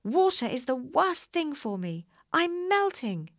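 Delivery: high, loud wailing witch; melting witch. A narrator's reading. Witch melting after Dorothy soaks her, wailing. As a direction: wail as you melt away.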